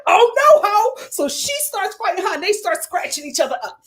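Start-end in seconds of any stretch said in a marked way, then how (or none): 0.1-1.1 imitating Elizabeth. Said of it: "Elizabeth was just like".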